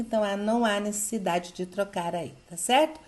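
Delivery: ordinary delivery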